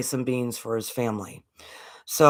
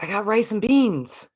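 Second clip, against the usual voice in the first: higher, a hint of a proud small boy; little boy; 7 semitones higher than usual. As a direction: lightly voice the boy's happy answer.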